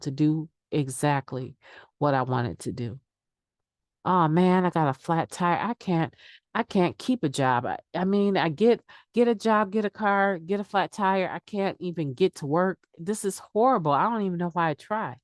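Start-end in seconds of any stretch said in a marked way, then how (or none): 4.0-15.2 mock whining, pitched up; a hint of a sorry-for-myself complainer; whining about bad luck, mildly hammed; whiny self-pity. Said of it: "heard yourself talk like that".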